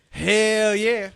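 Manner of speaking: loud, high hell yeah; excited shout. Acted. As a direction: belt it out with glee. Shouted enthusiastic reply.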